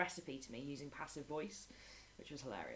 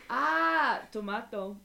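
put-on higher, louder cheerful child's reply; imitating a little boy; 6 semitones higher, 11 dB louder, much slower than usual. Little boy confidently answering tomato again. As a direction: proudly give the wrong answer.

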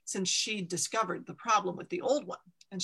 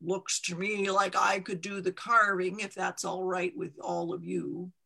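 lightly voiced gravelly stone carver. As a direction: stone carver offering his help with a gravelly voice. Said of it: "said in his gravelly voice".

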